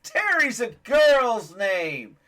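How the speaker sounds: high, slow, mocking laugh-talk through the line; laughing mockery. Dad telling a joke, Bob laughs at the name. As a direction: sneer it out while cracking up. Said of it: "starts laughing".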